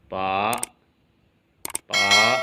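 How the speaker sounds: पा in Mandarin rising tone; rising second tone. Shown as a demonstration. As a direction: push पा upward at the end. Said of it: "ये बन जाएगा".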